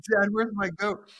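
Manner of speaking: high, loud, slow petulant whine; older son whining at his father; whiny older son. Acted. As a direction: whine it like a sulking kid.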